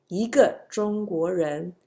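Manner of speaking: 一 rising in 一个中国人; second-tone 一. Shown as a demonstration. Teacher recaps the tone change, 一 in rising second tone. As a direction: lift 一 upward before 个. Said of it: "it changes when it goes before the fourth tone".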